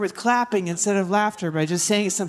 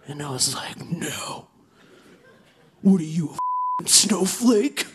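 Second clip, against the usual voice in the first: edgelord comic. Acted. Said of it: "which I will now demonstrate".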